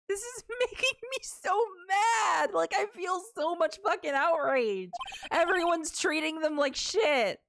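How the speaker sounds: real outrage. Real, not acted. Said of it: "oh, I'm so mad".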